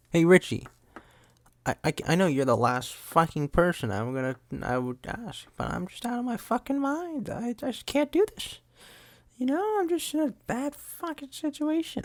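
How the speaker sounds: high, strained hammed-up distress; overacting movie mom. Film mom on the phone with the brother, mock frantic. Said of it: "And she's like".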